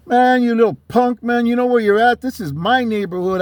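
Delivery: acting out turf-claiming bravado; tough neighborhood character. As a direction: challenge a punk on your own block. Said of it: "I got all into that, into that character".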